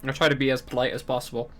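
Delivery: talking while eating; words around a bite of pizza; mouth full. Real, not acted. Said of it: "still eating a pizza".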